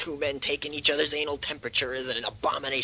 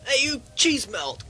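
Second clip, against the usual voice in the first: cranky bossy yell; 7 semitones higher than usual. Acted. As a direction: order the staff about impatiently. Patient yells orders at nurse.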